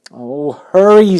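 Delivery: high, loud urging; urgent plea. Acted. Pig urges the lazy rat, loud and high. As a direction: press him to hurry.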